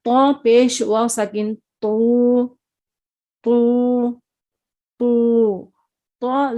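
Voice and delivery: تو repeated full and heavy; slow heavy syllable drill; heavy letter drill. Shown as a demonstration. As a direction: model the thick sound clearly. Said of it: "تب یہ حروف موٹے ادا ہوں گے".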